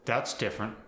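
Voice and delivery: polite Minnesotan evasion; Fargo accent. Shown as a demonstration. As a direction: Fargo accent, trying not to offend a friend. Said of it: "when you don't want to offend".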